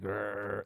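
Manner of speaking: imitated growl. Shown as a demonstration. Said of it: "There's, like, a growl".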